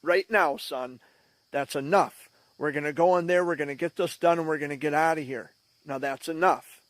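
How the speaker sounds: firm, mildly stern father's telling-off; stern dad. Retold or imitated. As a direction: lightly imitate a father laying down the law. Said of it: "in his very stern and deep voice".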